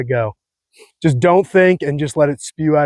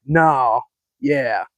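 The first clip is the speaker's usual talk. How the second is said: higher mock Cali voice; mock California bro, raised pitch; 3 semitones higher, slower than usual. Shown as a demonstration. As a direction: toss off "no, yeah" like a valley bro. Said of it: "It's like".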